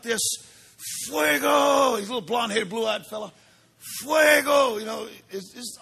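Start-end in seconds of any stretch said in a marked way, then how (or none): 1.1-2.0 excited shout. Retold or imitated. Imitating little boy's call. 4.0-4.8 excited shout. Retold or imitated. Imitating little boy's call.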